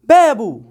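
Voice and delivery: بابو brisk, with بو short and falling. Shown as a demonstration. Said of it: "كمان مرة". (بابو بسرعة ومن غير مدّ الواو)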